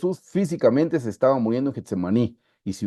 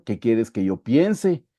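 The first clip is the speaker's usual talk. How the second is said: slow question leaning on "piense"; stress on PIENSE; much slower than usual. Shown as a demonstration. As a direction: draw out "piense" as the wrong word. Contrasta pensar, decir y hacer. (énfasis lento en "piense")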